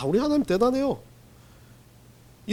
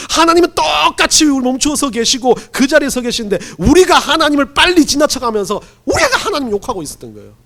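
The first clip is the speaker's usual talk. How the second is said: loud and high, 하나님 hammered home; preaching at full force; 7 semitones higher, 7 dB louder than usual. Acted. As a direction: drive the point to the congregation. Preaching climax. (힘차게 외치는 설교)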